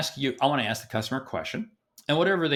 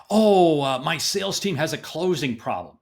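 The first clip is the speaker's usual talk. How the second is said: loud drawn-out "oh" easing into the complaint; mock complaint; 2 semitones higher, 5 dB louder than usual. People griping to a sales coach, mock complaint. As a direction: imitate a complainer, bursting in loudly then settling.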